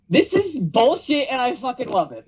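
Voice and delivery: high, gleeful fan; mock delighted fan. Shown as a demonstration. Contrasting funny bullshit for co-hosts, high gleeful delight. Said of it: "And then".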